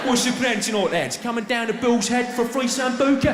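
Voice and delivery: lightly voiced John Terry as a Tenerife bar tout; pub promoter voice. John Terry touting free shots outside a pub, hammed-up promoter. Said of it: "outside a pub in Tenerife or somewhere going".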